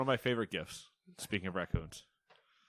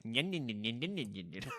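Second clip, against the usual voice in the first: panda nibbling noises; 3 dB quieter than usual. Retold or imitated. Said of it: "Just nibbling".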